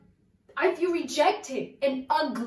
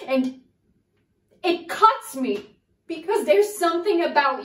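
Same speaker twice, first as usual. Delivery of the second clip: searching soliloquy. Acted. Actress monologue to Raymond.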